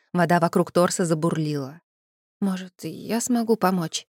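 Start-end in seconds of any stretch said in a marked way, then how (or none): 2.4-4.1 slow, hesitant offer; unsure mumble. Acted. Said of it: "неуверенно пробормотала я".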